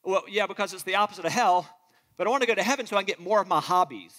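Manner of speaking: quick, lightly voiced casual believer; a hint of a breezy unbeliever; mock unbeliever. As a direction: toss it off like a careless skeptic. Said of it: "they're gonna tell you".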